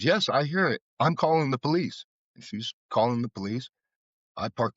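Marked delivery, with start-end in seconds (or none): 0.0-2.1 nurse's reply. Retold or imitated. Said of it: "And she says".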